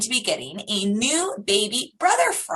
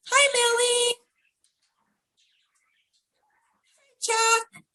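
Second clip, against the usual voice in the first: much higher, sing-song hello to the frogs; excited greeting; 13 semitones higher than usual. Real, not acted. Teacher greeting frogs on screen for the children, high excited call.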